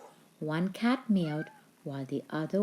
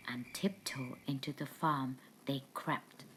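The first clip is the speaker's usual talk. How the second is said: hushed, creeping whisper; 3 semitones lower, 7 dB quieter than usual. A narrator's reading. Thieves crept into the farm at night, whispered. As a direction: tiptoe the words in a whisper.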